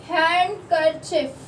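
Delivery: हैंडकरचीफ slowly, with the d left out; handkerchief, d silent. Shown as a demonstration. Teacher to students, slow silent-d demo. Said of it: "डी जो होता है वो silent होता है".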